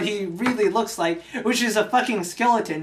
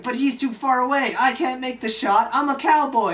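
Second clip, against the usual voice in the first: higher-pitched mock complaint; whiny mock protest; 5 semitones higher than usual. Sawyer protesting he can't make the shot, mock-worried. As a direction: protest like an out-of-his-depth cowboy, lightly acted.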